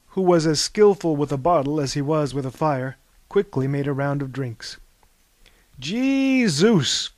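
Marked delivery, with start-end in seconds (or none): 5.8-7.1 higher, louder, spluttering through a cough; sputtered between coughs after a sip. Acted. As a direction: choke it out mid-cough. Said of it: "coughed Anaximenes".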